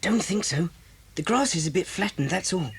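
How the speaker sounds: low whispered reply; hushed, low-pitched caution; cautious whisper. Acted. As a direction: whisper it while hiding. Hiding, men are near.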